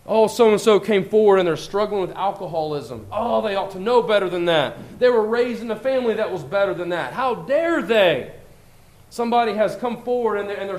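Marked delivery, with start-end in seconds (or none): 0.0-8.3 mock scandalised gossip; imitating a judgmental churchgoer, mock contempt. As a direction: sniff at a struggling brother's sin. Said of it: "speak of others' sins with contempt and irritation".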